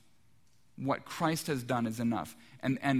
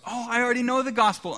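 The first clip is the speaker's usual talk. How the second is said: much higher, louder, quick breezy brush-off; brushing them off; 9 semitones higher, 7 dB louder, faster than usual. Retold or imitated. Homeowner at the door dismissing the visitors, breezy brush-off. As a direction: bat them away with a bright, fast dismissal. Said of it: "you know how the conversation goes".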